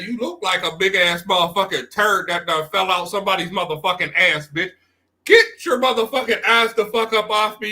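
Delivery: cussing out demo. Shown as a demonstration. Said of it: "That's how you gotta talk to these bitches".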